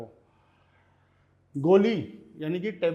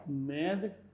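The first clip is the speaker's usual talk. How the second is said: मेदसेस्त्रा split by long pauses, med, sestra; syllable by syllable; 2 semitones lower, 4 dB quieter than usual. Shown as a demonstration. Spelling out word while writing.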